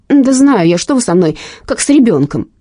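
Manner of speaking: annoyed. Acted. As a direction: brush him off, vexed. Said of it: "с досадой отозвалась Инга". (с досадой)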